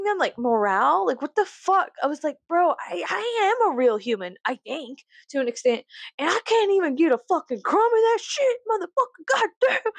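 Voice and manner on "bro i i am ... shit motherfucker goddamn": high half-laughing mock lament; high comic whining outburst; mock wail. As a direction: whine it high like a joke tantrum. Mock-wailing complaint.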